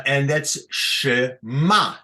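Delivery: shema with the weight on the final ma; stress on shema. Shown as a demonstration. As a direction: say shema stressing the last syllable. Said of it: "the accent is here under the mem".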